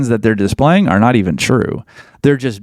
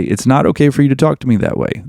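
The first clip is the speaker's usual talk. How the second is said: calm firm boundary. Shown as a demonstration. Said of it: "you say".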